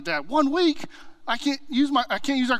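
put-on high-pitched, pleading teenage son; whiny teen protest. Teen son protests his grounding.

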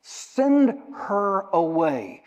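slow drawn-out plea; begging slowly. Acted. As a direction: stretch it like a beg. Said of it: "They begged him, saying".

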